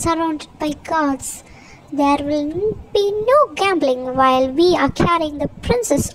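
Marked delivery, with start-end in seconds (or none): 2.0-6.1 firm, stern reprimand with lifted stresses. Acted. Henry to gamblers during the prince's orders, stern. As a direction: lay down the rule sternly. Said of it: "Henry said sternly".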